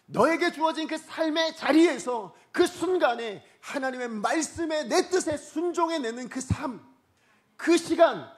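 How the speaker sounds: high, loud, weighty proclamation; impassioned preaching as God. Acted. God telling believers what truly matters, impassioned preaching. Preacher speaks God's words.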